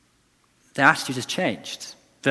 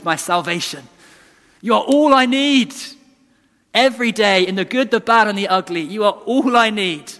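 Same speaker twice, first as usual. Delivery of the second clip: a lightly heightened prayer of devotion; voicing worship; 4 semitones higher than usual. Preacher voicing a worshipper's prayer, heightened. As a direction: lift it like a sung prayer, rising at all I need. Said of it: "we are saying".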